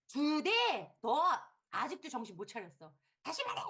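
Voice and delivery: strict mother. Retold or imitated. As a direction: press the child again. 엄마가 아이를 다그침. (엄마가 아이를 꾸짖듯)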